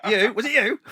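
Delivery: high, loud mock interrogation; hammed-up accusing yell; confronting hecklers. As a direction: shout it out at the crowd, hunting the culprit. Confronts the silent audience again.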